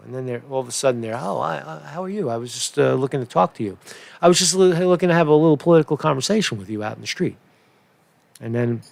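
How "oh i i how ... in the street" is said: fake-polite. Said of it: "That's how they are, two-faced".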